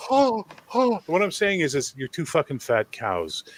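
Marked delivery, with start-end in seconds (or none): 0.1-1.0 high, cooing imitation of the girls; mock swooning girls. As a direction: coo it like a charmed fan. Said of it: "And they're just like".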